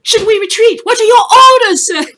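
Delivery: high, loud frantic yelp; panicking soldier. Acted. Panicked soldier begs his commander for orders, high frantic squeal. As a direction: squeal it like a scared grunt begging for orders. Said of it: "one of his guys starts panicking".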